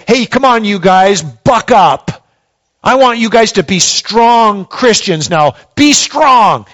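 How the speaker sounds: mock pep talk. Pastor mocks how Paul did not speak, flippant pep talk. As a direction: tease a flippant cheerleader Paul. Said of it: "He didn't say".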